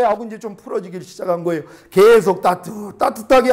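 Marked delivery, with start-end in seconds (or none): 1.9-3.5 slow, loud, stretched-out words; drawn-out emphasis. Retold or imitated. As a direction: stretch it out to picture steady warming. 해가 따뜻하게 하는 모습을 표현. (길게 늘여 힘주어 말하기)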